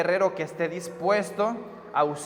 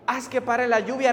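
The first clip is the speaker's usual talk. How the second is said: mildly pleading prayer, slightly raised; retold tearful plea; 3 semitones higher than usual. Youth leader begging God to stop the rain, mildly pleading. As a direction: act out an earnest appeal to God. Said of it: "se echó a temblar llorando".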